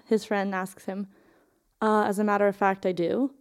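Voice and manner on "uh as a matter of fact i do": bickering, a bit quick; squabbling retort. Retold or imitated. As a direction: snap back at an old friend lightly. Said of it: "in that tone of voice you use with a person you're used to squabbling".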